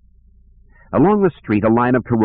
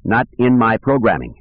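clanking voice; 3 semitones higher than usual. Acted. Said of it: "it said in a clanking voice".

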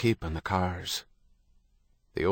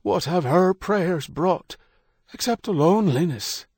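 fiery cracked voice; 10 semitones higher, 3 dB louder than usual. Acted. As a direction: rasp it with returning fire. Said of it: "Fire returned the cracked voice".

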